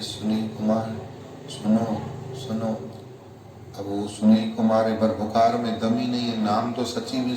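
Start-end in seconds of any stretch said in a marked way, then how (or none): 0.0-2.8 a soft, timid call to her husband; barely raises her voice calling his name; calling softly. Retold or imitated. Wife softly calling her feverish husband by name. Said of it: "तो धीरे धीरे बोल रही है".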